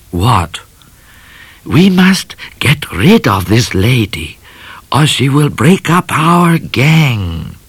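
slow, hushed conspiratorial cat voice; Cat plotting. A narrator's reading. Cat plots with Midnight, hushed and scheming.

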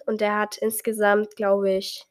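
talking with a blocked nose; stuffy nose. Real, not acted. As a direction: speak through a stuffed-up nose. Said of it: "meine Nase ist gerade richtig zu". (mit verstopfter Nase)

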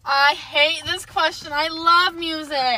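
loud, drawn-out complaint; slow, emphatic wail of protest; anguished protest. Real, not acted. Music lover protests a cruel would-you-rather, dramatic protest. Dismayed by a hard question.

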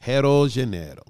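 "Rio de Janeiro" with H for the first R; Brazilian pronunciation. Shown as a demonstration. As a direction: say "Rio de Janeiro" as HEE-oo jee zhuh-NAY-ro. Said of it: "That's how we say it in".

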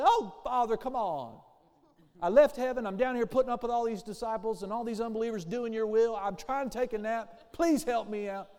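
loud, pleading gripe to the Father; hammed-up whine, like a put-upon complainer; whining prayer. Pastor mocking a whining prayer, loud and pleading. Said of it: "griping, whining, moaning".

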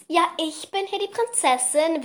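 high, haughty little princess; bossy princess voice. Retold or imitated. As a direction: play the spoiled princess. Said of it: "halt so richtig so".

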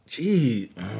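mimicked quiet wince at yelling; cringing. Husband shows how he reacts to her yelling, cringing. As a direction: imitate someone recoiling from noise. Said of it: "when you cringe at me yelling".

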